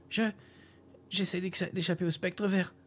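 put-on high, hesitant young voice; nervous boy muttering. A narrator's reading. Young nomad tells the old man he is fleeing, high and nervous. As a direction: stammer it out like a scared boy. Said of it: "marmonna-t-il après un moment d'hésitation".

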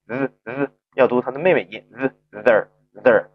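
"z" as the buzzing voiced th of feather; voiced TH sound. Shown as a demonstration. Teacher showing how TH changes before E, voiced sound. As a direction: voice the th written as z.

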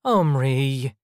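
disappointed and tired. A narrator's reading. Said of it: "Mom sounded so disappointed and tired".

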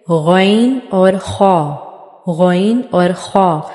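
गैन और खा spelled out slowly and clearly; each letter held, very slow; slow letter demo. Shown as a demonstration. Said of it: "आखिरी दो letters".

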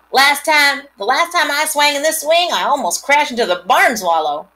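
put-on high, loud boy's yell; boy yells down from the hayloft, high and loud. A narrator's reading. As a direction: call it out from the hayloft. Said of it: "he yelled".

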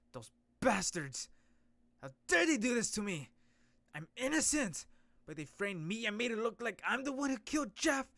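loud, high angry outburst; furious hero. Acted. Framed hero shouting at the bastards who set him up, furious.

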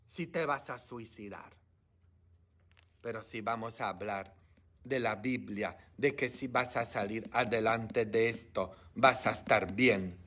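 dropped to a soft, low hush; quiet, intimate preaching after the shout. Real, not acted. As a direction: pull right back and speak softly.

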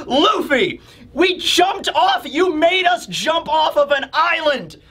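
high, full-throttle scolding; Nami, fuming. Acted. Nami gives Luffy the business after the jump, fuming. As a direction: chew them out in a high, exasperated shout. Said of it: "So Nami is just fuming right now".

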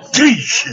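high, loud imitated crash; mock smashing noise. Pretending to smash something, high loud crash noise. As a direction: burst out a sharp smash sound.

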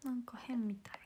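soft unvoiced whisper. Real, not acted. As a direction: whisper it under your breath. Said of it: "whispered aside". (ささやき声で)

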